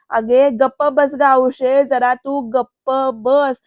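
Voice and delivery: slow, loud, angry shut-up; shouting. Retold or imitated. Varad yelling at his aunt to shut up, slow and loud. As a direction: bark it out slowly at the aunt. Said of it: "Varad ओरडून म्हणतो".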